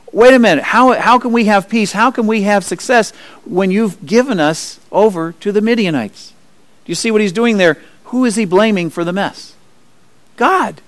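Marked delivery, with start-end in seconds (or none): 0.1-6.3 higher-pitched, acted-out protest; indignant protest. Gideon questions God over the Midianites, protesting. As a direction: challenge God with pleading questions.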